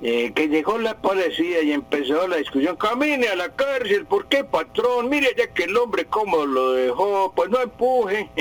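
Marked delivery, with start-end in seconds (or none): 2.8-8.3 high-pitched mock Mexican policeman in a marked Mexican accent. A language teacher on radio mimics a Mexican policeman, high and hammed up in a Mexican accent. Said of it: "ese acento mexicano".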